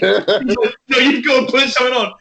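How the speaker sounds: lightly voiced insistent woman; woman insisting. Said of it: "And he was like".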